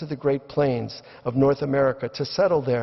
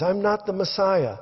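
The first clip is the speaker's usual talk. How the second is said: high-pitched protest; insist, voice raised high; crying out; 6 semitones higher than usual. Retold or imitated. Brian denies being the Messiah, high crying out. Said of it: "he cries".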